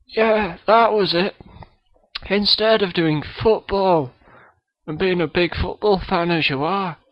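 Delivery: a kid's hammed-up Scottish accent; Billy Connolly impression. Guest Billy Connolly greets the podcast host, mock Scottish accent. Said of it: "Billy Connolly is on the show".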